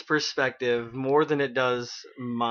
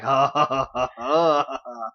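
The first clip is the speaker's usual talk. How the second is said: hammed-up gulping laugh, ha ha ha; a gulping, goofy laugh; mock laugh. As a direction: act out his silly laugh. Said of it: "and he's like".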